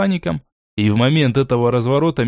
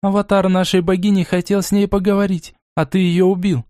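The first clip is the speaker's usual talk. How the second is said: higher, accusing cry; a hint of angry shouting, higher; angry accusation; 6 semitones higher than usual. Lona accusing Borey of the murder, angry and higher. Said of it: "Гневно и обвиняюще ... выкрикнула Лона".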